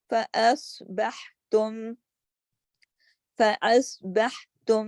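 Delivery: فَأَصْبَحْتُمْ with a thick ص; heavy sad. Shown as a demonstration. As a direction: make the ص full and heavy. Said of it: "صاد موٹا". (فَأَصْبَحْتُمْ میں صاد موٹا)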